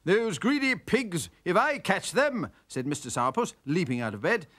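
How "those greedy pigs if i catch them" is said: angry grumble. Acted. Angry neighbour leaps out of bed.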